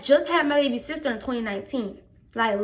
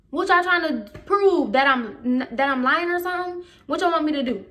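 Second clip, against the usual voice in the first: indignant challenge; 4 semitones higher than usual. Retold or imitated. Student asked to retell her story, indignant challenge. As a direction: demand an answer, indignant.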